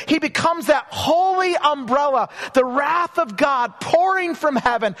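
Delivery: rising preaching cry; preaching shout. Real, not acted. Preacher crying out about Jesus to the church. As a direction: proclaim it with a shout.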